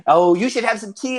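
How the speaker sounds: put-on fussing old hobbit hostess; hospitable grandmother. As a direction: press refreshments on a guest like a doting grandma. Grandmother hostess offers tea.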